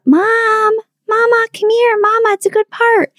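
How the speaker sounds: put-on high little-girl voice calling from downstairs; child calling out. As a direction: call up like a small child wanting her mom. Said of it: "she would yell out".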